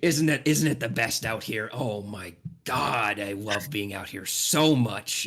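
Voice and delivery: loud and slow, savoring every word; jolly gushing giant. Acted. Cotton Candy Bear gushing about the outdoors, loud and slow. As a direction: gush like a big happy bear. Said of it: "and he goes".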